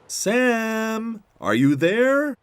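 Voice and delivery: high, loud drawn-out call. Acted. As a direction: call across a field for someone. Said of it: "Tech called out to Sam".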